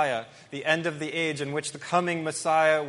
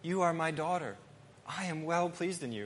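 tender father; 3 semitones higher, 4 dB quieter than usual. Retold or imitated. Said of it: "if I were to say to my daughter".

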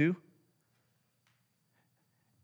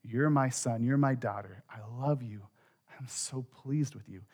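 softening, gentle father's reassurance; quiet, loving assurance to a child; tender fatherly affirmation; 5 dB quieter than usual. Acted. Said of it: "he looks at you and says".

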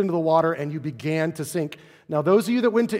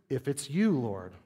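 tentative; 2 semitones lower, 6 dB quieter than usual. Retold or imitated. Change of heart after alarm.

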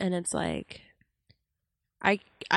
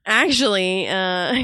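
a dopey, slightly louder "actually"; mouth breather impression; 6 dB louder, slower than usual. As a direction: play a clueless know-it-all. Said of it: "Is that your mouth breather impression".

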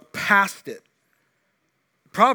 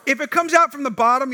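pushed up higher and louder; emphatic repeat; 10 semitones higher, 9 dB louder than usual. Acted. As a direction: hit it harder the second time. Repeats line with more force.

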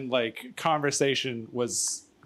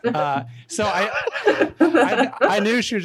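out of breath; 6 semitones higher, 5 dB louder than usual. Real, not acted. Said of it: "Why are you so winded?".

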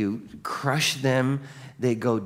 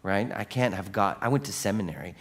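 flustered Pharisee; 4 semitones lower than usual. Retold or imitated. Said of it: "And the Pharisee's like".

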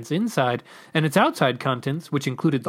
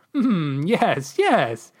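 cooing to himself; 4 semitones higher, much slower than usual. Acted. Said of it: "he cooed to himself".

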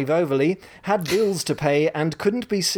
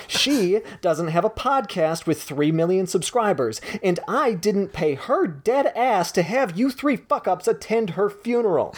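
higher, fed-up rant with a laugh slipping in; ranting on phone; 6 semitones higher than usual. Acted. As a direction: chew out the manager. Gretchen rants on phone.

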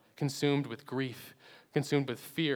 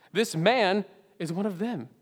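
higher, louder accusation; servant girl accusing; 6 semitones higher, 5 dB louder than usual. Acted. Servant girl telling the bystanders, higher and louder. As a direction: call him out to the crowd.

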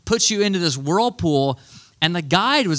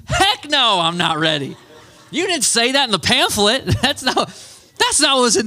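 much higher, panicked protest; mock terror at the drop; squealing heck no at the guide; panicked refusal; 7 semitones higher than usual. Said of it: "And I was like".

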